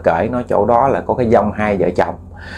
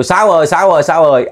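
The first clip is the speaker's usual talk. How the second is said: calling out; 6 semitones higher, faster than usual. Retold or imitated. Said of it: "Kêu".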